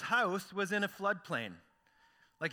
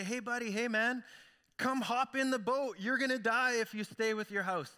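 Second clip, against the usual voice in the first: calling out; 5 semitones higher than usual. Acted. Rescuers calling from boat.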